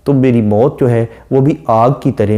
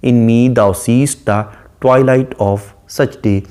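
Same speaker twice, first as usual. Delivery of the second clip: slow poem recital; much slower than usual. Shown as a demonstration. Teacher reads Shakespeare line to students, very slow recital. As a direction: read the line very slowly, weighing each word. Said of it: "line number five में वो कहता है".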